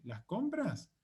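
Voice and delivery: "¿Las compras?" lifted high as the end of a question; rising back up. Shown as a demonstration. Teacher breaks the question in parts, rising back up. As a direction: swing the pitch up on "compras". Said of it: "después vuelvo a subir".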